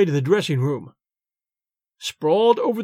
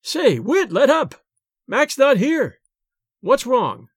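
higher, pained cry; 6 semitones higher, slower than usual. A narrator's reading. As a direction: yelp while being grabbed hard. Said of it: "I cried out with pain".

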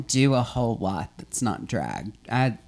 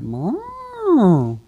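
shy fawn voice; 10 dB louder than usual. Pretend. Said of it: "animal noises".

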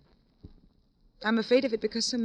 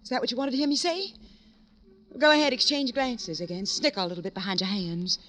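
bitter outburst. Acted. Widow lashes out at detectives.

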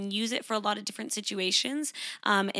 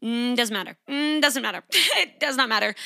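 building from firm to loud and higher; firm dismissal; 4 semitones higher, 5 dB louder than usual. Real, not acted. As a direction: shut it down, louder each time.

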